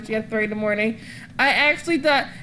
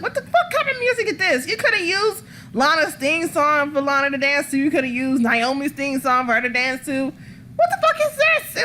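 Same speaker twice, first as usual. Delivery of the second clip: mock outraged rant; 3 semitones higher than usual. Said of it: "I was like".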